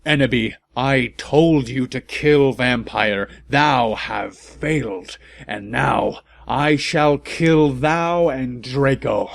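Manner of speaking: villain voice. Acted. Villain threatens the heroes.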